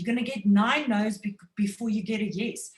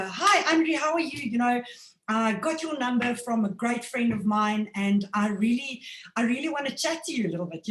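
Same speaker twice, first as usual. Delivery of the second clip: excited friendly call; 2 semitones higher than usual. Shown as a demonstration. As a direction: sound genuinely thrilled to reach him. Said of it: "you're excited and your posture is upwards".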